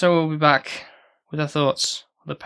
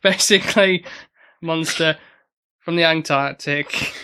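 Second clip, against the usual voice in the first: announcer voice; 3 dB louder than usual. Pretend. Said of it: "You should talk like that more often".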